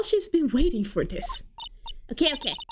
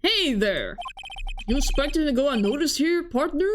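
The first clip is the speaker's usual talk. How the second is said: lightly attempted cowboy accent; 2 semitones higher than usual. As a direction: challenge them with a hint of cowboy twang. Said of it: "Another guy with an accent".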